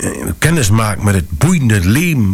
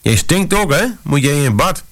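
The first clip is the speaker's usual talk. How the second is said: put-on high, guileless little-girl voice, much higher; small daughter asking a stranger in the train; innocent toddler voice; 7 semitones higher than usual. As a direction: ask it like a blunt curious child. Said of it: "zei ze".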